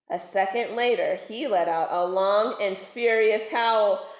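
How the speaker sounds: put-on lively read-aloud for children; story narration. A narrator's reading. Teacher reading a twisted fairy tale aloud to pupils, storyteller voice. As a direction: tell it like a bedtime story to kids.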